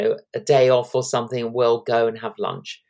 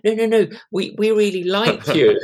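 higher, louder retold protest; eager insistence; 7 semitones higher, 4 dB louder than usual. Restaurant owner insisting on hosting the couple, eager. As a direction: imitate a friend overruling the refusal.

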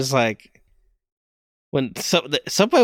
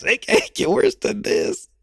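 mock optimism; 13 semitones higher than usual. Shown as a demonstration.

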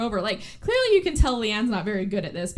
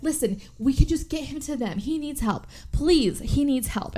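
pleading; 4 semitones higher than usual. Retold or imitated. Pleading for injured man.

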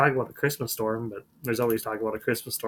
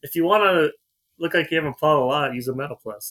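mock radio ad; 2 semitones higher, 4 dB louder than usual. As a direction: sell it like a cheesy radio spot. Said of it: "Isn't that what he said?".

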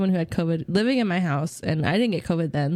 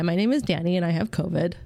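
stuffy voice from a cold; blocked nose. Real, not acted. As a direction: talk like your nose is plugged. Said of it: "I sound like I'm plugging my nose".

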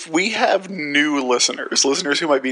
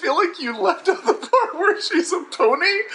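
laughing. Real, not acted. Laughing objection to the recap.

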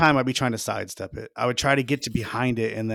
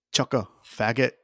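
put-on Australian accent. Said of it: "calling him stuff with an Australian accent".

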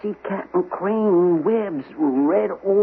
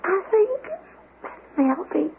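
high tearful words fading to a whisper; dying fading voice; 10 semitones higher, 4 dB quieter than usual. Acted. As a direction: fade out as you die. Dying man's last words.

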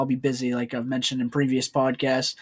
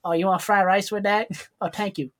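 lightly put-on Asian accent, a bit higher; mock Asian accent; 5 semitones higher than usual. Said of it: "when I get my Asian accent going".

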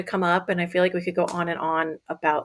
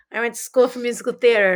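laughing; 3 semitones higher, 4 dB louder, faster than usual. Real, not acted. Laughing self-mocking joke.

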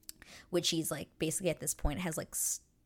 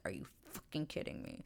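retold pissed-off disbelief; 8 dB quieter than usual. Man left without the last word, quietly incredulous. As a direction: mutedly act out someone pissed. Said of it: "he is pissed 'cause he's like".

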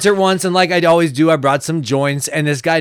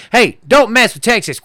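higher, punchy mock-Texan warning; hammed-up "don't mess with me" bravado; tough-guy slogan; 4 semitones higher than usual. Mocking what the litter slogan became, tough-guy bravado. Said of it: "but it became a".

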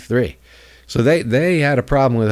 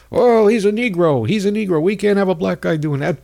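mock right-wing pundit; 7 semitones higher than usual. Mocking right-wing media.

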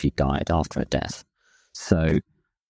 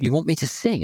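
lightly voiced wife, pitched higher, puzzled; wife's surprised question; 10 semitones higher than usual. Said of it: "She went".

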